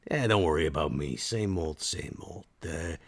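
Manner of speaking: laid-back, unhurried in-character voice; easygoing Max. Acted. Max telling her not to worry, easygoing. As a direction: play it casual and reassuring.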